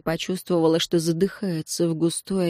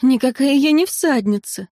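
higher-pitched, distressed protest; honest, near sobbing; 6 semitones higher, 3 dB louder than usual. A narrator's reading. Eteri denies being a rider, near sobbing. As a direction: insist on it, close to tears. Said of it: "честно сказала Этери и всхлипнула".

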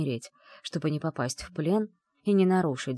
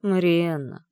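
groaning; 5 dB louder, slower than usual. Acted. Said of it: "простонал он".

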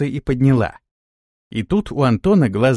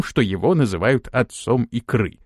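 ordinary delivery

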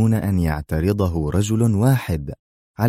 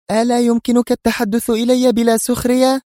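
much higher, louder exasperated exclamation; indignant cry; 4 dB louder than usual. Acted. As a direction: cry out in mild outrage. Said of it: "هتفت في سخط". (صيحة ساخطة)

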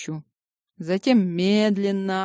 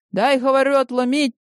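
insistent; 5 semitones higher, 3 dB louder than usual. Acted. Neighbor insisting, pitch up.

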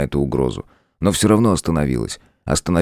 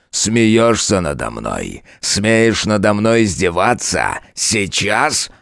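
громче, медленно, с нарастающей яростью; заорать на неё; крик; 6 semitones higher, slower than usual. A narrator's reading. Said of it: "заорал он". (король в ярости кричит)

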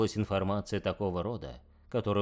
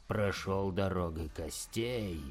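quiet, slow demonic hiss; 4 dB quieter, slower than usual. Acted. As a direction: hiss it like a chained daemon. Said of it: "зашипел Красный Ангел".

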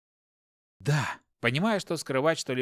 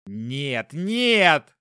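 sharp rising shout, much louder on the second no; 7 dB louder than usual. Acted. Parry shouts at Hopkin to stop him going upstairs, loud cry. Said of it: "закричал Парри".

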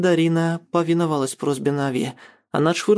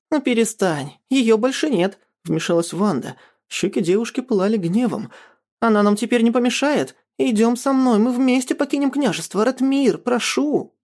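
higher, urgent, pushy pleading; high-pitched insistent girl; 6 semitones higher than usual. A narrator's reading. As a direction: press him, eager and cold-hearted. Vanda urges Ratmir, cheeks burning.

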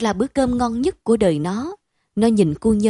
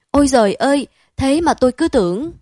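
higher, louder gasp of relief; relieved cry; 4 semitones higher, 5 dB louder than usual. Acted. Đức hugs his friend, mildly relieved outcry. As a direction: let the fear go out of you.

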